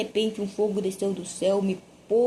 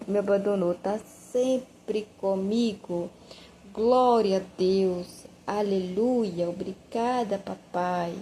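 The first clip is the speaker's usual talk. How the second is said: slow, lower, tender thanks to God; grateful prayer; 3 semitones lower than usual. Retold or imitated. Praying grateful on the bus.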